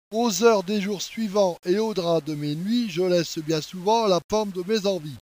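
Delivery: even, measured verse reading; poem recitation. Acted. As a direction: recite it as solemn love poetry. Reads the poem aloud. (récitation posée d'un poème)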